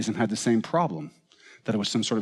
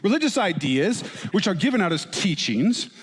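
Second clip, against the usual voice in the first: a hint of a stern old professor, slightly higher; lightly voiced learned lecturer, pitched up a little; mock Sigmund Freud voice; 4 semitones higher than usual. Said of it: "I don't know if he talked like this".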